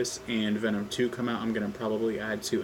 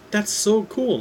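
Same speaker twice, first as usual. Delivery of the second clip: excited; 10 semitones higher, 9 dB louder, slower than usual. Acted. Peter amazed.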